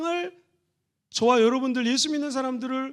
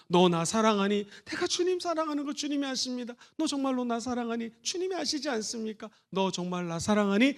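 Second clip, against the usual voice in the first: soft, hushed voicing of Jesus and Peter; tender quiet questions; 7 dB quieter than usual. Preacher softly voicing Jesus questioning Peter, hushed. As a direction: ask gently, almost under the breath.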